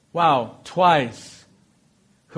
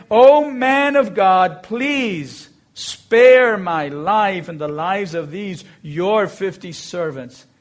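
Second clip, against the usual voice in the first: slow, earnest begging, louder; pleading captain; 4 dB louder, slower than usual. Acted. Kneeling captain begs Elijah to spare him, slow pleading. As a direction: beg for your life, drawing each word out.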